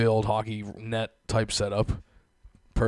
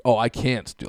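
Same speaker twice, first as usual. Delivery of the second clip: imitating a smug refusal, louder; mock smug; 5 dB louder than usual. Mocking the coffee girl over the mic, smug. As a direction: put on a smug cashier's refusal. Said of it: "how smug she was over the fucking mic".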